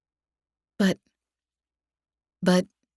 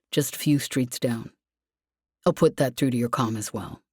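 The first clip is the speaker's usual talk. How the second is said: lower, steady male voice; matter-of-fact, gently confident; Lev, calm; 5 semitones lower than usual. Acted. Lev explains.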